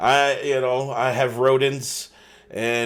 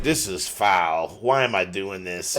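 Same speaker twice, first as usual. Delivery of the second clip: muttered disgust; 8 semitones lower, 7 dB quieter, slower than usual. Retold or imitated. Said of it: "I was like".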